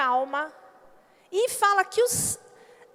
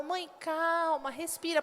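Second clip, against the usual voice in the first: softer, slow gentle calming; quiet slow reassurance; soothing; 5 dB quieter, slower than usual. Retold or imitated. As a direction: daughters soothing their mother. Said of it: "elas falavam".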